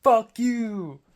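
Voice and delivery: high, loud screamed curse; venting rage, yelled into the open air; angry scream. Retold or imitated. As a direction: let it all out at the top of your lungs. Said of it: "I started screaming and yelling".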